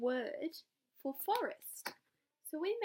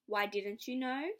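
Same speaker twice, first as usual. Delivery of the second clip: teasing mouse; 4 dB louder, slower than usual. Acted. Mouse teases the fox.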